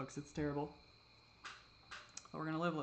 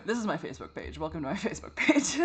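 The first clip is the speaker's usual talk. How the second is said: laughing through the words; self-mocking laugh; 4 semitones higher, 8 dB louder than usual. Real, not acted. Joking to viewers about her channel, laughing. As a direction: laugh at yourself, a bit bitter.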